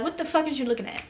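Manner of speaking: muttered mock challenge, kept quiet; imagined confrontation. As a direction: say it under your breath, as if rehearsing a comeback. Imagined confrontation, first take.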